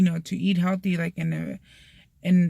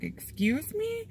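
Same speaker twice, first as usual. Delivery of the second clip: high, slow, softer disbelieving question; mock affronted; 10 semitones higher, 7 dB quieter, slower than usual. Mom refused over her rice, mock affronted. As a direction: stretch it upward in hammed-up offence. Offended Mexican mom acted out.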